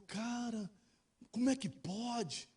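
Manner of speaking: hushed, stretched-out amazement; amazed disbelief. Retold or imitated. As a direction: marvel slowly at an unbelievable sight. Client amazed at seeing doctor.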